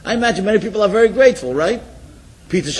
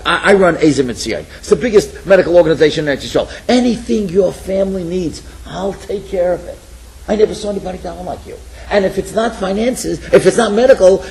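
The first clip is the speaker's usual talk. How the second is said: urgent pleading; 5 dB louder than usual. Retold or imitated. Urgent offer to the man.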